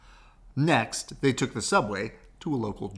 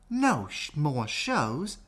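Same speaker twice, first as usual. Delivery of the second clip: clumsy put-on Southern accent, high start; a badly done Southern drawl as Tiana; 4 semitones higher, slower than usual. Tiana reacting to bad news, in a bad Southern accent. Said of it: "that's a horrible Southern accent".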